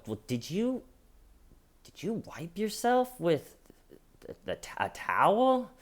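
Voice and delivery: mock cop question. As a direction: ask it like a gently mocking cop. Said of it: "And then they go".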